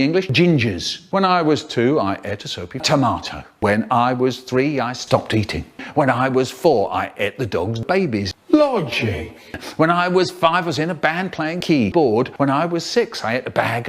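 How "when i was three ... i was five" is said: usual speaking voice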